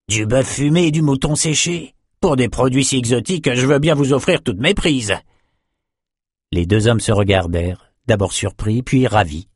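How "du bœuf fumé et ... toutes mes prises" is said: higher-pitched fisherman voice; lightly voiced fisherman bargaining; delighted fisherman character. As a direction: take up the trade offer in a raised voice.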